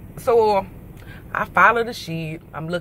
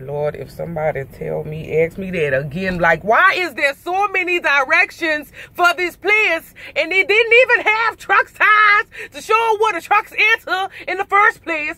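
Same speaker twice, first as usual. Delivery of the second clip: exasperated rant; 7 semitones higher than usual. Retold or imitated. Fed-up driver venting to the clerk, high and exasperated. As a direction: vent the frustration, rising in pitch. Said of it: "I'm mad".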